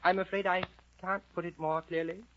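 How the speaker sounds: put-on high, polite girl's voice; Alice's meek voice. Storyteller as Alice answering the caterpillar, meek and high. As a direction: apologise in a high, careful pitch. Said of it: "And Alice answered".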